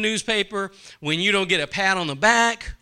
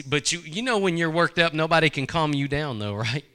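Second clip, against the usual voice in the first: normal talking voice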